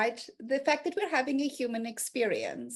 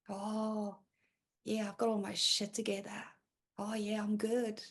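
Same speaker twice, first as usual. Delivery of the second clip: mock breezy lie; 5 semitones lower, 7 dB quieter than usual. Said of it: "spread the lies".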